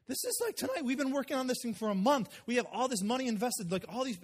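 high, pleading disbelief; mild exasperated protest. Retold or imitated. Frustrated pleading with the woman.

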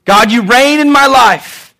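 slow, proclaimed prayer; emphatic, drawn-out worshipful declaration; fervent prayer. Acted. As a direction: declare it to heaven with conviction.

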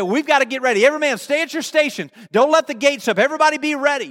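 rally the men to their posts; commanding alert. Acted. Canaanite commander readies every man for battle, commanding alert.

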